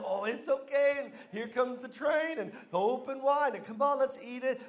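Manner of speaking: lightly voiced mother feeding baby; coaxing mom. Mom plays train with the spoon, lightly acted coaxing. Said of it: "and the mom just".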